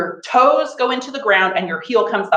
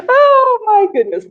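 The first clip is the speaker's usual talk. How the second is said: excited; 13 semitones higher, 6 dB louder than usual. Real, not acted. After laughing exercise.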